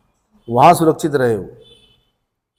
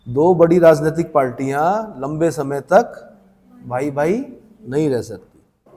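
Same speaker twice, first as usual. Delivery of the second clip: deliberate phrase-by-phrase repeat. Shown as a demonstration. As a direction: pause after "पार्टियां" and after "तक", slowing on "भाई भाई नहीं रह सकती". Teacher repeats point phrase by phrase.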